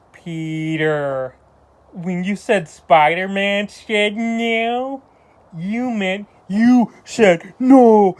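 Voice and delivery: very slow, drawn-out menacing whine; Harry impression. Reviewer mocking Harry confronting Peter, slow whine. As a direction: stretch every word, creepy and petulant. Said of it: "I could've done a better impression".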